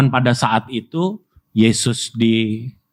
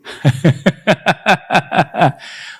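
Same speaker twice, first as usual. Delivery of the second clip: real warm laughter; hearty laugh; 6 semitones higher than usual. Real, not acted. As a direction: laugh out freely at the joke. Laughter heard.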